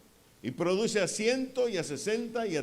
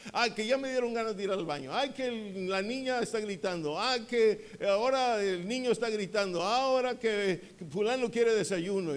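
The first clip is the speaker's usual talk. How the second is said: higher, fretful run of household excuses; lightly acted domestic griping, higher than usual; mock excuses; 4 semitones higher than usual. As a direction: imitate someone harried at home, complaint after complaint. Voicing excuses from staying home.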